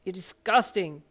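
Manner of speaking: firm reproach; lightly voiced stern boyfriend. A narrator's reading. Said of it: "Sero's stern voice".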